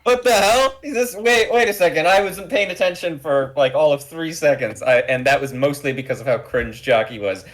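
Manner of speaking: high-pitched, incredulous mock indignation; mock outrage. Player objecting to the pilot's sudden accent, mock outraged. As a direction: splutter in exaggerated disbelief.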